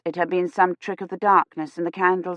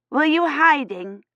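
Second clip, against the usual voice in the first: put-on high, slow little girl question; a small girl asking the priest playfully; curious child voice; 8 semitones higher than usual.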